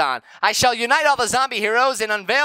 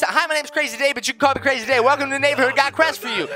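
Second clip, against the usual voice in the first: Crazy Dave voice; 2 semitones higher, faster than usual. Acted. Mom voicing Crazy Dave's welcome text. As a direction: read it like a wacky neighbor.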